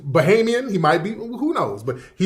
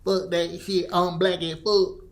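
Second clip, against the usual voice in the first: mock Florida accent; 8 dB quieter than usual. Host mimicking rappers who talk like that, mock Florida accent. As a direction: imitate a broken-English Caribbean-Florida accent under your breath. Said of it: "when cats talk like that".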